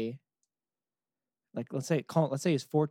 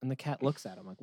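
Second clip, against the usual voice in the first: usual speaking voice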